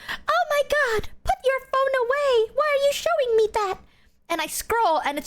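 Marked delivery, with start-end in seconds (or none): 0.1-3.8 high, mock embarrassed protest; flustered friend. Imitating Numi hiding from her thirst traps, high and flustered. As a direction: squeal it up high, begging her to stop. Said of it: "And she goes".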